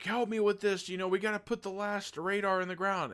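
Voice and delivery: high, mocking voice of the pushy guy; mocking imitation. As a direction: mimic him as a whiny pushy partner. Mocking character's plea.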